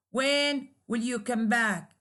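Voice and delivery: "When will you come back?" falling at the end; falling intonation. Shown as a demonstration. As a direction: let "back" drop in tone. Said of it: "there is a falling intonation".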